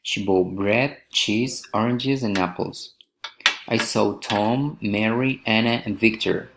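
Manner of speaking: each item "bread", "cheese", "Tom", "Mary" lifted, last one falling; enumerating intonation. Shown as a demonstration. Teacher models enumerating, rising on each item before the last. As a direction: set items apart, closing on "apples" and "Victor". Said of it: "Enumerating, rising intonation".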